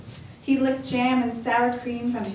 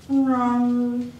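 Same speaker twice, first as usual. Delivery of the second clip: bear growl; 2 semitones higher, 6 dB louder than usual. Acted. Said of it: "growled Old Bear".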